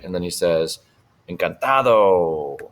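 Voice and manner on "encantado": slow model word. Shown as a demonstration.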